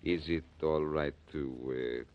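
light put-on French accent; a Frenchman greeting the fence politely, lightly French-accented; Jacques Pierre French accent. Blackie posing as French buyer greeting fence, light French accent. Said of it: "I'm going to be Monsieur Jacques Pierre".

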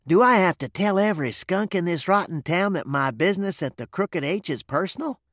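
high-pitched indignant demand; irate bark. A narrator's reading. Dusty snapping back about his private business, irate bark. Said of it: "Dusty barked at him like an irate terrier".

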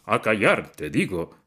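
thundering command; roaring. A narrator's reading. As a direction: bellow the order again. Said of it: "bramó".

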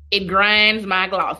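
"It grinds my gloss" said slowly with a slight put-on accent on "gloss"; little accent. Shown as a demonstration. Vlogger repeating her catchphrase with a little accent, slowly. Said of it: "I had to say it with a little accent".

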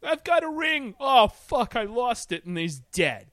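high, loud, hammed-up panic; mock panicked hero. Mocking the movie's Green Lantern, high and flustered.

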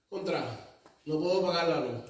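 soft, low mock-worried grumble; worried complaint. Preacher imitating a member fretting over the power bill, softly. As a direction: sigh it out like a broke believer.

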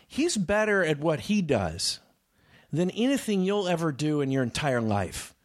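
slow emphatic anger. Retold or imitated. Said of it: "I was just getting so angry".

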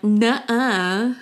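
put-on stubborn kid's nuh-uh; mock sibling denial. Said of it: "and you're like".

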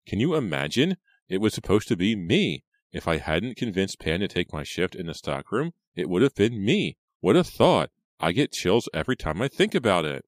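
high, loud, exclaiming; self-dramatizing. A narrator's reading. Reva imagines herself kidnapped, dramatically. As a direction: gush in self-centred horror.

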